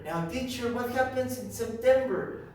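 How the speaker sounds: a hint of an inquiring student; pupil asking the teacher. Voicing a pupil's question.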